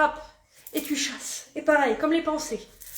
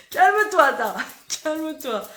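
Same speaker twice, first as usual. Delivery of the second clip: calling to calm down; 4 semitones higher, 6 dB louder than usual. Real, not acted. Playfully calling someone to calm down.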